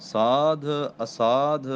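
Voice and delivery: ਸਾਧ ਅਸਾਧ slowed, the ਧ pressed firmly; ਸਾਧ ਅਸਾਧ, slow and crisp; said tightly, slowly. Shown as a demonstration. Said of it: "ਅਸਾਧ ਵੀ ਕੱਸ ਕੇ ਬੋਲਣਾ".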